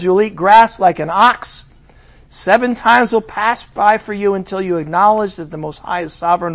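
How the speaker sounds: booming heavenly verdict; proclaiming decree. Acted. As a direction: thunder the decree. Voice from heaven, reread louder.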